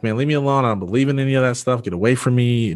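pushing away. Retold or imitated. Patient brushing off the praying nurse, annoyed. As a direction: push the praying stranger away. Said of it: "And I'm like".

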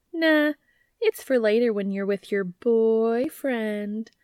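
cooing. Acted. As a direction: sweetly tease him, stretching the words. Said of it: "she cooed".

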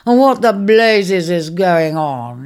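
slow, groaning and weary; wounded lion groaning slowly; weak groan. Acted. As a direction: drag the words out like an injured man. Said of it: "he groaned again".

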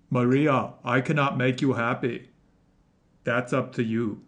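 lightly voiced, badly faked Austrian accent; Arnold Schwarzenegger. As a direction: do a half-hearted Austrian strongman impression. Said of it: "gonna do a terrible impersonation".

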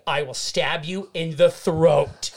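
slow threat through laughter; deadpan threat cracking into laughs; laughing mock threat. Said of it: "I was like".

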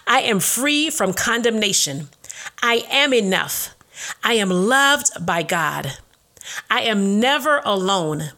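slow, deliberate declaration with long pauses; slow affirmations. Acted. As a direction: declare each one slowly, with conviction.

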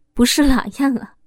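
pained, mocking laugh; bitter laugh. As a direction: laugh bitterly through the question. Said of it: "痛苦地说着". (痛苦地冷笑着反问)

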